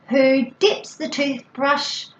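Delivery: slow, spaced-out question; routine question. Shown as a demonstration. Parent asking a child about the toothbrush, slow playful question. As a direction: ask it slowly, word by word. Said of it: "then you can say".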